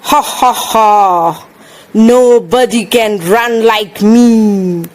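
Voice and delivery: loud, bragging rabbit voice; boastful bunny. Acted. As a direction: crow about your speed like a cocky bunny.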